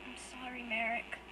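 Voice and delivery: very soft, tearful apology; barely audible through sobs; broken whisper. Acted. Guilty brother apologizes softly after sobbing.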